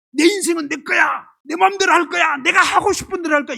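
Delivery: loud, high, willful insistence; defiant declaration. Acted. Preacher voices self-willed humans to the congregation, loud and defiant. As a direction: proclaim it like a headstrong rebel.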